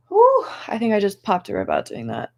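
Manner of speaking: winded, catching breath; breathless after a strain. Real, not acted. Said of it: "I'm out of breath just sitting here".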